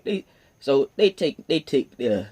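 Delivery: stammering over the words; tripping on the start, stuttering. Real, not acted. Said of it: "stammering, stuttering, all kinds of shit".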